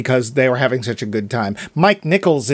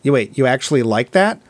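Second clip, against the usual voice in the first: deadpan; 3 semitones lower than usual. Retold or imitated. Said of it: "deadpan, and says".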